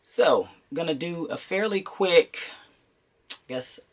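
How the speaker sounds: congested, blocked-nose voice; talking through a stuffy nose; stuffy sinus voice. Real, not acted. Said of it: "pardon my voice, I'm dealing with some sinus issues".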